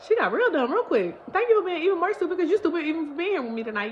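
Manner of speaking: mocking impression of the man; smug guy voice. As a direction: sneer as the creep. Voicing guy's smug thoughts.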